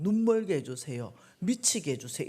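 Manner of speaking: loud, angry curse; cursing prayer. Retold or imitated. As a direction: demand it with rising anger. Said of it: "우리가 아무리 저주해도". (크게 저주하듯 외치는 기도)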